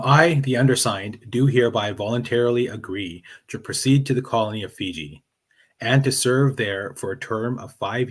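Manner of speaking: measured read-aloud of an oath. Shown as a demonstration. Guest reads an old indenture oath on request, reading aloud. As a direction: read it out formally, starting loud and settling. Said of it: "read that out loud".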